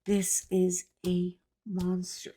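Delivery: hushed aside about the pattern; whisper. Real, not acted. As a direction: whisper it as if confiding.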